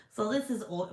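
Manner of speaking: a slightly strange voice that slips out; odd put-on voice. Real, not acted. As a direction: says it in a voice that isn't quite her own. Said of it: "Why am I talking like that?".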